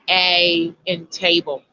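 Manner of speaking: slow, lengthened 'ay' in A and table; long A sound. Shown as a demonstration. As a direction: draw out A and the first vowel of table. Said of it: "So the A sound".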